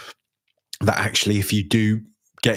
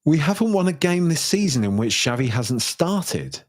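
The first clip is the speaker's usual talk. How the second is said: incredulous re-read; 6 semitones higher than usual. Shown as a demonstration. Rereading a fan's stat to listeners in disbelief. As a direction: read it again like you can't believe it.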